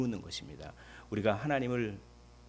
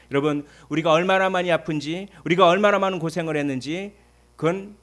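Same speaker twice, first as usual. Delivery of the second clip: loud, higher appeal; preaching at full force; preaching shout; 6 semitones higher, 10 dB louder than usual. Real, not acted. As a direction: build up and call out.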